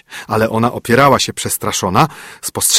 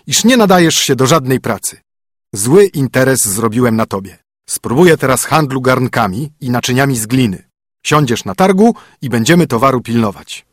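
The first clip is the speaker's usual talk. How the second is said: a bit louder, commanding husband; brisk, bossy husband; stern husband; 2 semitones higher, 3 dB louder than usual. Acted. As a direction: lay down the rules to the spoiled princess. Husband voice again.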